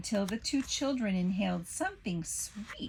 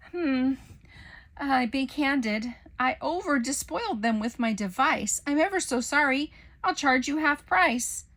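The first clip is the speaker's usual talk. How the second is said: sheepish professor voice; 5 semitones higher, 5 dB louder than usual. A narrator's reading.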